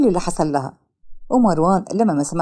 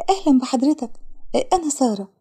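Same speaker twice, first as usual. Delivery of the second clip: lightly voiced shy girl; 4 semitones higher than usual. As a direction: play the shy tearful girl, timid. Sara voiced high. (بنت خجولة بصوت أعلى وأهدى)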